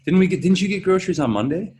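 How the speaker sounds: high voice through laughter; laughing high quote. Retold or imitated. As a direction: laugh while playing the spouse. Acting out a laughing domestic line.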